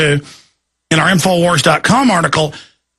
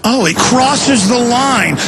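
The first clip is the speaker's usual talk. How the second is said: mocking repeat; 4 semitones higher, slower than usual. Real, not acted. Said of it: "repeats anchor's phrase".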